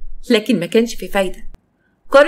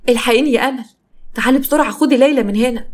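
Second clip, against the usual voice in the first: higher, hurried call for help; urgent plea; 4 semitones higher than usual. Acted. Farah phoning Amal to take the child, urgent. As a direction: beg her to come at once. Panicked phone call to friend.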